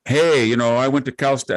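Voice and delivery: lightly imitated Valley Girl accent; a touch of mock Valley Girl accent. Visitor bragging about Cal State, imitated Valley Girl accent. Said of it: "this Valley Girl accent".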